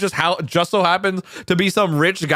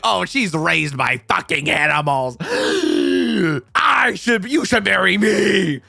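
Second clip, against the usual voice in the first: put-on snooty rival girl; slower than usual. Rival girl voiced in retelling.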